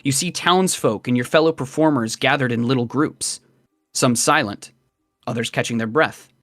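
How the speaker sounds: measured game master narration; scene-setting narration. A narrator's reading. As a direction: read it as a story told to the player.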